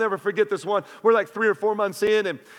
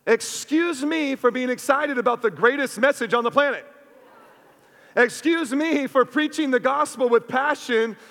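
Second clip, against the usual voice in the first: higher, louder fired-up preaching comeback; passionate retort; 5 semitones higher, 3 dB louder than usual. Retold or imitated. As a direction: defend the gospel with rising fire. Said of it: "And I was passionate, much like I am now".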